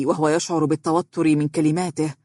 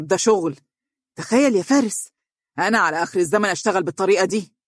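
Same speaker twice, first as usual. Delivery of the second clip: mildly incredulous, indignant complaint; appalled amazement; faster than usual. Acted. Boss lamenting his staff's lack of conscience, appalled. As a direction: marvel aloud at how outrageous it is. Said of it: "وهو يهتف متعجبا".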